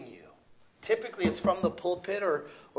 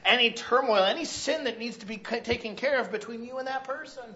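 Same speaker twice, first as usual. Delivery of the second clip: louder, higher, pressing questions; the Lord speaking; 5 semitones higher, 7 dB louder than usual. Acted. Preacher voicing the Lord confronting the congregation, loud and pressing. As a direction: challenge them, rising and insistent. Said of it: "What else does he say".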